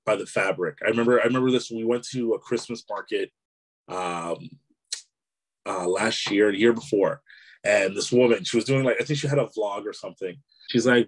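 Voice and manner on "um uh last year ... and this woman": normal talking voice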